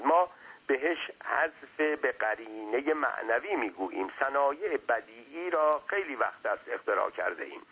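lightly voiced pedantic explainer; wordy servant. Servant lecturing his master on rhetoric, mildly pedantic.

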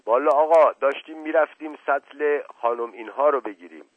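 breathless rustic servant spilling the news; Mash Qasem voice. A narrator's reading. Old servant reporting the flood to Asadollah, excited folksy voice.

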